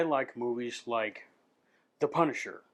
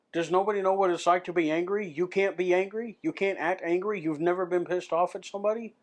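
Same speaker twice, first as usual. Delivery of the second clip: exasperated rant; 6 semitones higher, 3 dB louder than usual. Real, not acted. Ranting at bad TV actors.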